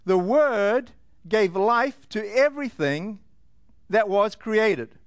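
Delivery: slow, deliberate verse reading; scripture reading. A narrator's reading. Preacher quoting verse four to the congregation, slow scripture reading. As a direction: set each phrase apart, slowly. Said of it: "it says".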